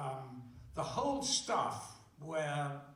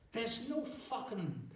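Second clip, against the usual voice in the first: raised, outraged complaint building louder; indignant rant; 6 semitones higher, 5 dB louder than usual. Retold or imitated. Thirsty actor complaining to Malcolm about no beer, indignant and loud. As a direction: grumble it loud and offended, speeding up at the end.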